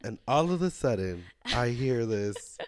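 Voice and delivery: slow, drawn-out quoted TikTok voice; TikTok imitation. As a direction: mimic a dramatic viral clip. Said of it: "Like that TikTok".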